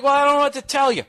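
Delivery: fast, high, loud exasperated dad; dad getting mad. Retold or imitated. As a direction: throw up the words in annoyance. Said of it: "he started getting mad".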